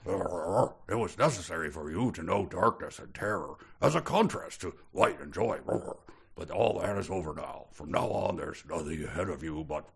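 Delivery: lightly voiced cosmic star; soft, grand star speaking. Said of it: "I'm going to go ahead with this voice".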